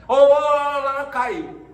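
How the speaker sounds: loud, high stuttered calling out; mock phone-call shouting; faked bad connection. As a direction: pretend the line is breaking up. Fakes a dropped phone call.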